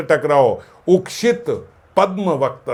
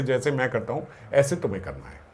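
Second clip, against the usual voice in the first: affectionate advice; 8 dB quieter, faster than usual. Retold or imitated. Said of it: "कितने अपनेपन से समझाएगा".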